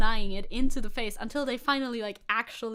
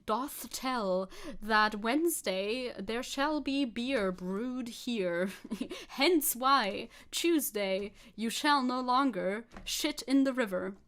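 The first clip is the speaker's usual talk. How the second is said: mock medieval proclamation; slower than usual. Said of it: "I can't translate to medieval English".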